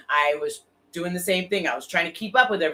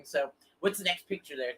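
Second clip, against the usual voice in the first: ordinary talk, nothing marked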